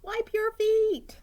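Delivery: high, loud, slow motherly order; stern mom command. Acted. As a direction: order him slowly like a cross mom. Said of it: "David's mom always said".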